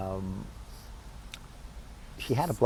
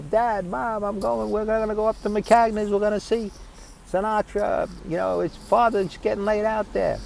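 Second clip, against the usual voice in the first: put-on high-pitched boy pleading with parents; excited kid; 12 semitones higher than usual. Boy telling Dad and Mom about a famous singer, high excited voice. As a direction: pitch it way up like an eager teenager.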